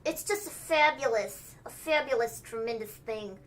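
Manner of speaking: mock Trump bragging; a hint of Trump's cadence; Trump impression. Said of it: "Trump-ish sound".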